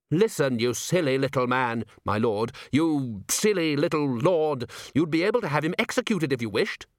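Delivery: scolding, hastily turned deferential; exasperated courtier. Acted. A chair loses patience with Nobby, exasperated. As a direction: argue with strained politeness.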